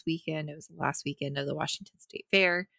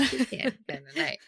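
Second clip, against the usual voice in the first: big beaked toucan; 9 semitones higher than usual. Pretend. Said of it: "That's what a toucan sounds like".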